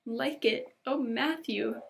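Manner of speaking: overjoyed. Acted. Anne overwhelmed by her gift.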